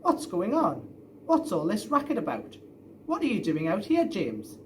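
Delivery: a father storming out, cross; a dad crossly questioning his son in the night. Acted. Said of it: "he sounded really cross".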